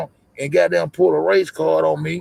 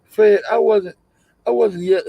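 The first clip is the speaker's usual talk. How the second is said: higher-pitched quote of a woman; imitating her; 8 semitones higher than usual. Streamer starts quoting her for viewers, imitating her. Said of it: "you'll hear her say".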